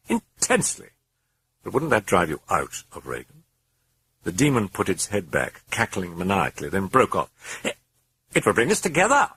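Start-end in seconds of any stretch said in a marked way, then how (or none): 0.1-0.9 gleeful demon sneer; mocking demon. A narrator's reading. Demon answers Karras. 7.6-9.3 high, loud, sardonic demon voice; gleeful demon sneer; mocking demon. A narrator's reading. Demon taunts Karras.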